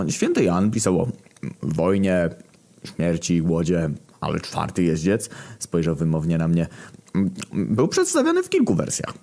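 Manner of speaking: a hint of a squeaky voice; character voice. Głód tłumaczy wysokim głosem. (lekko zagrany głos Głodu)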